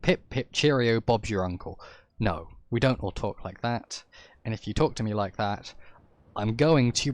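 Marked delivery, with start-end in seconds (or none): 0.0-1.8 lightly done, deliberately bad stereotype British accent; a mild mock of a posh-Brit accent. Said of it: "really shitty British stereotypical accent".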